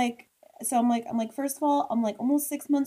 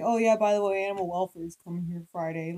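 nonchalant; 4 semitones lower, faster than usual. Retold or imitated. Wife imitating husband passing on the animal welfare visit, nonchalant. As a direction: toss it off casually, as imitating someone unbothered. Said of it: "like, all nonchalant".

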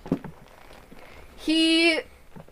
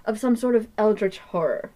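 loud public declaration; announcing loudly; 4 semitones higher, 5 dB louder than usual. Acted. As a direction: make sure everyone hears the rumor. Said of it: "he says this pretty loudly".

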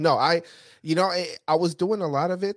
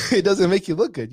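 higher and louder, laughing it out; amused, rueful emphasis; laughing repeat; 5 semitones higher, 5 dB louder than usual. Real, not acted. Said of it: "laughing repeat of line".

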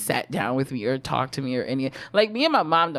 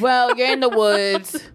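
mock matter-of-fact welcome; 7 semitones higher, 5 dB louder, slower than usual. Acting out her own experience, joking.

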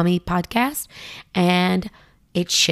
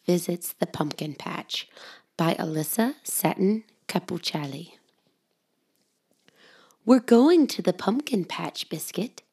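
whispered story reading. Acted. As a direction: hush it like a bedtime book. Storybook whisper read to children.

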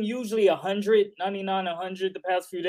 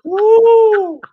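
loud high whoop; excited cheer; 14 dB louder than usual. Real, not acted. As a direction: cheer the mic check. Hype cheer.

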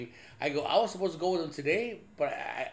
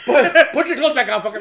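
laughing; 8 semitones higher, 15 dB louder than usual. Real, not acted. Laughing teasing shout.

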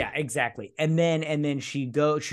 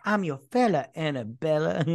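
cheesy pick-up line; 3 semitones higher than usual. Pretend. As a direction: pretend to woo with corny charm. Pretending to use pick-up line.

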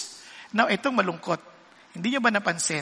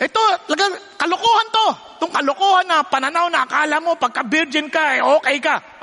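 mock angry quote; 3 semitones higher, faster than usual. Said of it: "Parang ang galit na galit".

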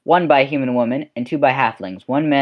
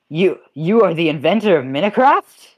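awed gasp; 2 semitones higher than usual. Acted. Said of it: "they go, gasps".

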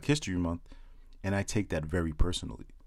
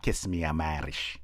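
light put-on Irish accent; a quick hint of an Irish lilt; lightly mocking Irish accent in a stand-up bit; 2 semitones lower than usual. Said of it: "Irish culture with that accent".

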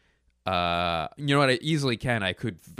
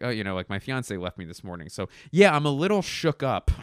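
fast, offhand throwaway that lifts on the so yeah; lackadaisical; faster than usual. Shown as a demonstration. Joking about his fiance leaving, said cavalier and offhand. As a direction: toss it off like it's nothing. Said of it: "in such a cavalier or, or such a, you know, a, a lackadaisical way".

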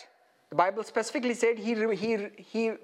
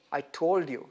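mock reproach; 7 semitones lower than usual. Imagined I-told-you-so from Jesus.

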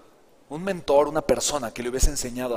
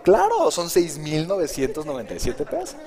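slow, laughing quote of the price; amused sales reply. Retold or imitated. Nephew teasing his uncle with the full price, laughing. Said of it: "Le digo".

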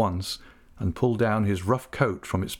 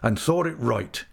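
a hint of a grief-struck seaman vowing; grieving old fisherman; 3 semitones higher than usual. Old uncle vowing to Ham he'll find his niece, lightly voiced and resolute. Mr. Peggotty vows to seek niece.

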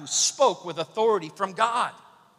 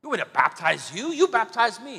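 imitating a flustered, high-pitched protest; mock freak-out; 8 semitones higher, 4 dB louder than usual. John balking at being asked to baptize God, freaking out. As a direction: play up a baffled, panicky objection. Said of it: "John kinda freaks out".

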